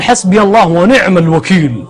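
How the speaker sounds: slow, earnest words of full trust; calm trust. Retold or imitated. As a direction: say it slowly, resting everything on God. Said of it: "قال". (بصوت خاشع بطيء واثق بالله)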